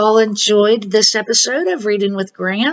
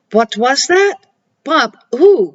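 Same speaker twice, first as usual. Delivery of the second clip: startled goblin, higher and rising to a cry on who; frightened cry; 5 semitones higher, 3 dB louder than usual. Acted. Goblin hearing a bump in the cave, frightened cry. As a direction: jump at the noise. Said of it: "cried the goblin".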